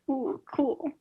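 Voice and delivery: whispered, muted mock cheer; hushed, secret little reaction; quiet reaction. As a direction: keep the celebration under your breath. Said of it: "it was more of a quiet".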